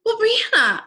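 high, loud hesitant voice; loud, high hemming and hawing; mock hedging critic. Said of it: "hedging critic".

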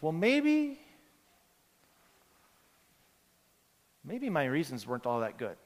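different tone. Retold or imitated. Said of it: "speaking in a different tone".

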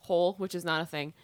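swallowed wrong way. Real, not acted. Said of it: "I swallowed some seltzer water and it went down the wrong hole".

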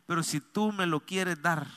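soft, humble plea. Shown as a demonstration. Pastor showing how to pray to God, soft humble request. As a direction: ask softly, claiming no merit. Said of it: "Con humildad".

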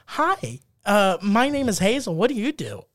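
lightly voiced girl introducing herself; retold girl's greeting. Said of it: "this Chinese girl. She came up to us".

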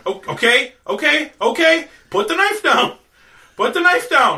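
high-pitched urgent appeal; alarmed pleading. Acted. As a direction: talk down someone holding a knife. Wizard pleads with armed man.

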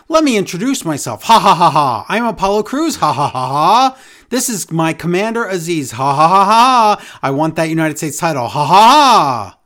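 forced hammy laugh between words; unhinged villain cackling intro; fake laughing. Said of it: "so much fake laughing from Crews".

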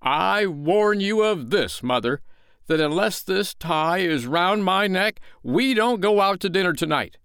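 high, emphatic warning tirade; stern. A narrator's reading. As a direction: lay down a stern, melodramatic ultimatum. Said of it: "he went on sternly".

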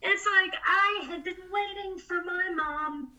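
holding back tears while telling it; fighting tears. Real, not acted. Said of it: "ah, I'm gonna cry".

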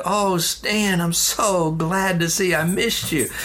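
lightly voiced dad, pleased to see his son; glad greeting. Dad greets son arriving for dinner, glad greeting.

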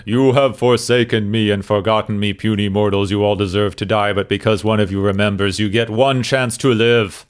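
lightly voiced wrathful serpent god; a hint of a menacing dragon deity. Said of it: "mostly it's more like".

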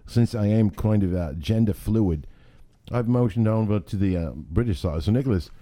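mock-earnest British accent; playful British host. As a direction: explain yourself in put-on British. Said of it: "I registered as a British man".

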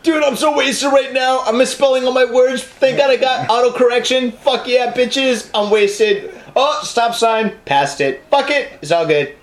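playing a drunk driver; getting drunker. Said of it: "tweeted about his drunk driving".

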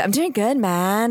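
laid-back Canadian drawl on "I'm doing good, man"; Canadian accent. Retold or imitated. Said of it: "That's your Canadian".

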